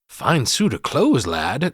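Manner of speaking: slow, drawn-out leprechaun greeting. Retold or imitated. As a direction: size him up like a sly leprechaun. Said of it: "Lep says".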